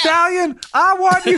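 high, stretched showboating call; Apollo Creed. Retold or imitated. Boxer calls out his rival in the ring, mock bragging. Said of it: "he comes out to Sly".

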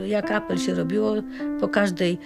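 ordinary talk, nothing marked

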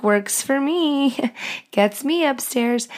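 flirty. Retold or imitated. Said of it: "I'm like".

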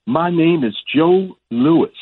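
slow, high champ's pronouncement; Muhammad Ali. Retold or imitated. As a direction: draw it out as a solemn champion's proclamation. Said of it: "he says".

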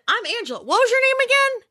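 high, sing-song playful introduction; pretend stranger. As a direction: introduce yourself brightly to a small child. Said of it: "And I said".

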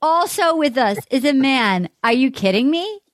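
hammed-up Boston accent. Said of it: "Can I do a Massachusetts accent".

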